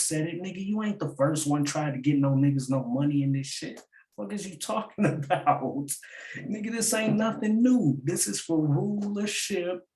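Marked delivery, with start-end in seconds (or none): 4.2-9.8 hammed-up battle rapper taunt; mock rapper voice. Mocking rapper, high, drawn out.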